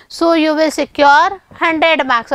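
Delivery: spelled out slowly for students; teacher dictating to the class, very slow; slow dictation pace. Shown as a demonstration. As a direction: say each word slowly and deliberately. Slow English line to students.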